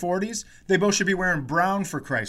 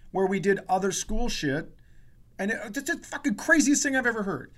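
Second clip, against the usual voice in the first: indignant retelling; 5 semitones higher than usual. Retold or imitated. Arguing with the teacher.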